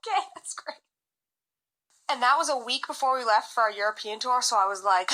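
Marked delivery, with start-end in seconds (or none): 0.1-0.8 fake-cheerful okay. Reacting to ex moving on.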